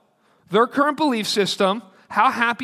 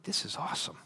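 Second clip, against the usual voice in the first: whispered delight; 2 semitones lower, 16 dB quieter than usual. Retold or imitated. Reacting to email.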